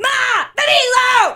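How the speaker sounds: very high, loud hollering yell. Taking her turn when the group asks for one: yelling. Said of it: "That's how I yell at my children".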